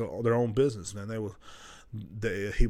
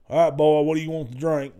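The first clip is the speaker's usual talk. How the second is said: gruff grandpa quote; 4 semitones higher, 6 dB louder than usual. Retold or imitated. Voicing grandpa in truck.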